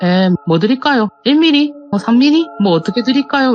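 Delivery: put-on impolite, curt voice. Part-time worker recalls serving a customer while tired, reenacting a rude reply. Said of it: "이런 식으로 이제 좀 안 좋게 대응을".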